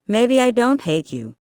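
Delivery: grinning. A narrator's reading. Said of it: "he grinned".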